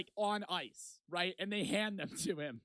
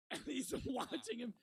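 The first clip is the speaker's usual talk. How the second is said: higher, laugh-broken telling; laughing through words; 4 semitones higher than usual. Real, not acted. Telling of the worker watching his friend, laughing. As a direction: let real laughter break the line.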